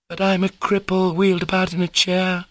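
put-on high, flustered girl's exclamation; mildly amused, embarrassed protest; laughing protest. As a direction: brush it off in a high voice. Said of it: "laughed Lisa, flushing crimson".

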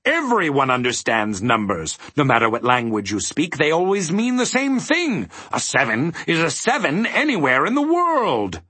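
high, loud, indignant bellow; booming, worked-up mathematician. A narrator's reading. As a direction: bellow it as a proclamation, pitch climbing. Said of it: "bellowed the mathematician".

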